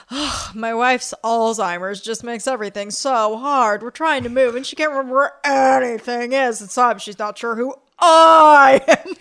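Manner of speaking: retelling a classmate's sad story with a laughing catch at the end; a touch of a choked-up sigh, half imitated; victim voice. Imitating a classmate telling his wife's illness in victim voice, mildly tearful. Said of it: "you don't even need to do the voice".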